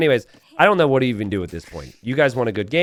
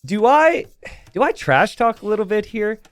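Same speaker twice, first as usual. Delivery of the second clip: retold inner question; 9 semitones higher, 3 dB louder than usual. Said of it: "I was like".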